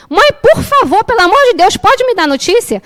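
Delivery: high, swooping plea; imitated pleading son. Mother voices her teenage son's text, high exasperated pleading. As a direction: beg mom for news, mimicked.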